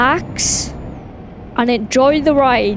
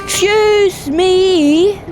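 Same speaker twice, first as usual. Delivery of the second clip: indignant excuse me; 6 semitones higher, 3 dB louder, much slower than usual. Real, not acted. Startled by another trucker.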